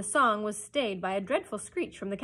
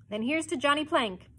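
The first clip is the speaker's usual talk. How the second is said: higher, louder, brazen toast; brazen cry; 7 semitones higher, 6 dB louder than usual. A narrator's reading. Hook toasts the plank before his prisoners, brazen. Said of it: "he cried brazenly".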